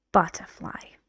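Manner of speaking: "Butterfly" said with a clear falling tune. Shown as a demonstration. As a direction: let "Butterfly" drop at the end.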